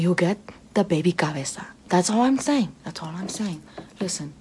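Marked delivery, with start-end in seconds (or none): 1.9-2.7 louder emphatic. Acted. Creature insisting on her point to the listener, louder. Punchline, then hushed repeat. 2.8-3.6 hushed repeat. Acted. Creature repeating her point under her breath.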